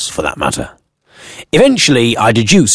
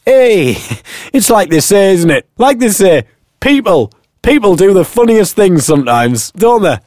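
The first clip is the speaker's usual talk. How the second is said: higher, jolly cabbie voice; chuckling taxi driver; 9 semitones higher than usual. Acted. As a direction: play the amused cabbie philosophising.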